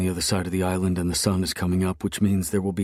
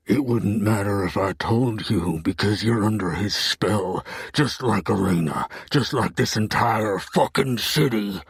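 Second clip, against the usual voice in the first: louder, bitter accusation; angry; 3 semitones higher, 4 dB louder than usual. Acted. Hero accusing Bethany, louder and bitter. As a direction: spit it out with contempt.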